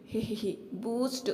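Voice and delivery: slow acted tee-hee, then the word; bashful, put-on giggle; sheepish giggle. A narrator's reading. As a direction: giggle coyly and draw out the word. Wife giggles sheepishly offering drink.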